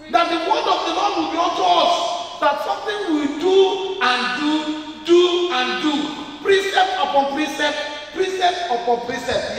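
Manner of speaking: high, loud proclaiming; preaching shout. Real, not acted. Preacher shouting the promise over the church. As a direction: thunder it to the congregation.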